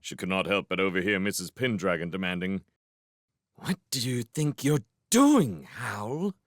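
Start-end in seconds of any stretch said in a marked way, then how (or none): 3.5-6.3 high, fierce demand. A narrator's reading. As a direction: demand an explanation from a wayward husband. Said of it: "She sounded so fierce".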